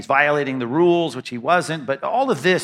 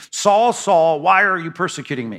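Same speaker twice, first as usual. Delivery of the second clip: raised, commanding call on the name, then easing; loud authoritative voice. Retold or imitated. Heavenly voice confronting Saul on the ground, mildly authoritative. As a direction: call out with authority, reading it aloud. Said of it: "It's authoritative, it's loud".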